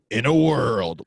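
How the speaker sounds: drawn-out trailer catchphrase; movie-trailer narrator. Retold or imitated. Podcaster mocking a dated impression, movie-trailer voice. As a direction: mimic a film-trailer voice-over. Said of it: "that guy hasn't narrated movies".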